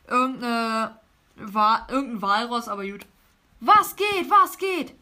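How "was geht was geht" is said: loud, hyped-up greeting; higher-pitched voice. Acted. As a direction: call it out in a raised, excited voice. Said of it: "mit einer höheren Stimme geredet".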